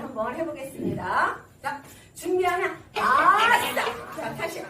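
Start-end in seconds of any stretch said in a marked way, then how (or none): 3.0-3.7 loud, stretched "아싸" whoop; drawn-out cheer. Real, not acted. Instructor getting seniors ready to start, drawn-out rousing cheer. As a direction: let out a long rousing cheer.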